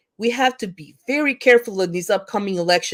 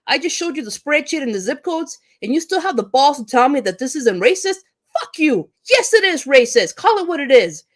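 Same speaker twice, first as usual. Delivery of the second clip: imagined angry comeback, higher and fast at the start; angry retort; 5 semitones higher than usual. Retold or imitated. Teacher imagines telling off a Facebook opponent, heated. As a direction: tell the ignorant opponent off, heated. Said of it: "I get really angry about this because I'm like".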